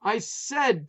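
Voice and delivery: high, loud shout. A narrator's reading. Putz shouting at wife over barking, loud. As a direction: bellow the question. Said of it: "Putz yelled".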